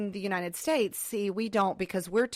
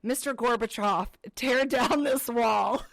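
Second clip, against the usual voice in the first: imitating toddler's recital; 3 semitones higher than usual. Mother imitating her little child's recital, lightly declaimed. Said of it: "walking around saying".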